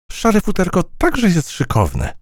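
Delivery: high, slow buzzy fly voice. A narrator's reading. Fly complimenting the mouse's grey fur, high. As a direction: return the compliment sweetly up high. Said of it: "odwzajemniła komplement".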